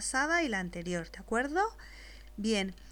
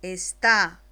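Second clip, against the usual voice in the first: slow dictation; slower than usual. Shown as a demonstration. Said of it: "después te la dicto".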